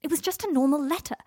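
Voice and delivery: high, loud yell. Acted. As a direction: yell it back. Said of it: "Harry yelled".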